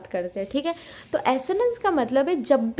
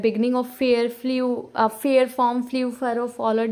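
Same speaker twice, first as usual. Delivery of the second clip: slow, leaning on each "f" in "fair form flew furrow followed"; stressing the F sounds; much slower than usual. Shown as a demonstration. Teacher showing alliteration to students, slow, stressing each "f". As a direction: land hard on every "f" at the start. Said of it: "जो एफ का sound occur हो रहा है".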